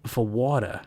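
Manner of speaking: put-on slipping into a Boston accent. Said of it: "I'm doing the stupid Boston accent again".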